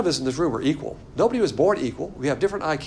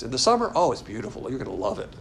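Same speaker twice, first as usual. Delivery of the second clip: mock sweet sales pitch; 3 semitones lower, faster than usual. Mock travel pitch for North Korea.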